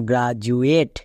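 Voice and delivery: slow, spelled-out গ্রাজুয়েট with জু for the d; demonstrated pronunciation. Shown as a demonstration. Teacher shows students how the word sounds, demonstrated pronunciation. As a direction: say গ্রাজুয়েট slowly, with a জু sound in the middle. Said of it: "এর উচ্চারণ কি দাঁড়াবে".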